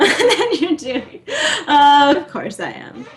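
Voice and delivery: slow, laughing through the words. Real, not acted. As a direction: crack up mid-sentence. Cracking up at being teased.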